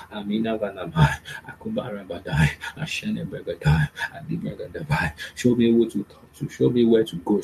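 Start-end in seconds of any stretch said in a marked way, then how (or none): 0.1-5.1 chanted tongues prayer; speaking in tongues. Acted. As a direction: flow into tongues.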